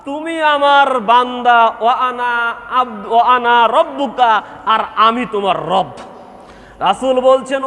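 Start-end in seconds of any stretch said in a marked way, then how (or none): 0.0-5.9 overjoyed cry, retold. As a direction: call out to God, stretching the words. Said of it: "সে খুশি হয়ে বলছে".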